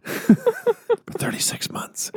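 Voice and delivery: wheezing laugh through the words. Pretend. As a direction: laugh out the price terms. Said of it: "Sounds like an infomercial".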